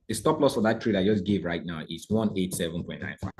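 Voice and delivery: measured dictation for note-taking; said slow. Shown as a demonstration. Trader dictates stop loss to students, said slow. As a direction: say it carefully so someone can write. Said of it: "let me say it slow".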